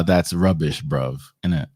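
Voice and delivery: a hint of a London accent, slowed a touch; light mock British accent on the slang. Joking to the hosts that he can't do their accent, a light mock London accent. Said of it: "like Josh said, that's rubbish".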